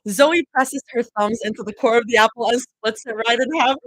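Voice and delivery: reading a story aloud; story narration. Acted. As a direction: read it like a novel.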